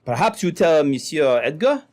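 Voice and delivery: put-on light French-Canadian trapper's accent. French trapper explaining to the sergeant, light French accent. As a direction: speak as a French trapper telling his story. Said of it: "this half-baked Frenchman".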